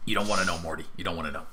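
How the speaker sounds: a hint of dark secrecy; ominous Whelm. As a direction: warn him off like a paranoid sidekick.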